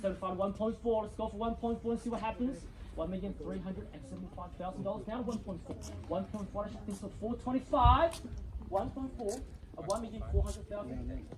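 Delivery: brisk auction call, rising at each bid; auctioneer calling bids. Real, not acted.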